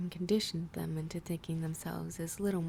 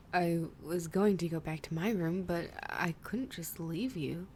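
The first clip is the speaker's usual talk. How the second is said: swooning. Acted. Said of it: "he swooned".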